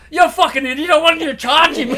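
high and loud, laughing through it; laughing scold. Retold or imitated. Quoting Jock calling him an idiot, laughing loudly. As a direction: scold him while cracking up.

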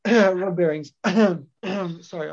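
coughing and clearing throat; chesty cough. Real, not acted. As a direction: talk through a cough. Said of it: "I've got a cough".

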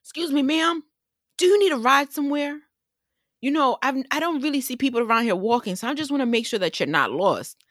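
very high, eager good-Samaritan voice; imitated helpful stranger. Pickup driver offering a lone woman a ride, high eager imitation. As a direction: pitch it way up, quick and over-helpful. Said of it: "This man hops out of his car".

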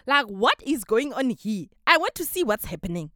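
put-on American accent. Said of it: "I had to switch to an American accent".

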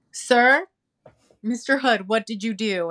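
high, surprised exclamation; mock shocked. Host retells gasping at an artist's gift box. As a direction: act out disbelief at the gift.

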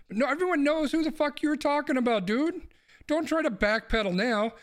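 yelling at him across the room; angry yell. Real, not acted. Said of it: "my neighbors are probably hearing me yell".

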